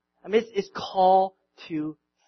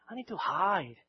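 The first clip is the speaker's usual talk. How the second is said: Peter's plea; 5 semitones higher, 3 dB louder than usual. Retold or imitated. Peter begs Jesus to go away, building louder. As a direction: grow more frantic with each please. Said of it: "Peter's saying".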